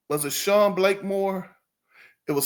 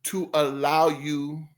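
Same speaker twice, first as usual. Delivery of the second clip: slow musing; 2 semitones lower, slower than usual. Real, not acted. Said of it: "doing this in reverse".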